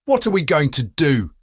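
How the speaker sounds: hoarse, worried question. Acted. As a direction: ask it with a hoarse voice. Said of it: "she muttered hoarsely".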